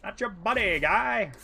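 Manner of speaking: South Park style Canadian quip; Canadian accent. Retold or imitated. Quoting South Park to a friend, mock Canadian accent. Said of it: "I don't even watch South Park".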